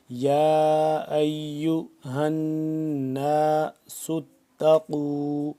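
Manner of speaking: slow, drawn-out chanted tilawat; Quran recitation. Shown as a demonstration. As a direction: recite melodically, stretching every vowel. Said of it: "غنہ کرنا ہے".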